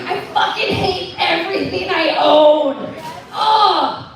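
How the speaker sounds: loud, high, hammed-up frustration; exasperated outburst. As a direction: play fed up at full volume. Acts exasperated woman at closet.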